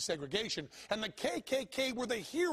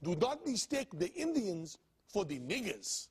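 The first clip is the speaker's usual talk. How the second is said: put-on Indian accent; 4 semitones higher than usual. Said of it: "my bullshit Indian accent".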